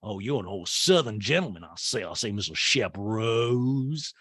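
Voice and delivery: flirt like a Southern belle; lightly voiced Southern belle. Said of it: "they're both from the South".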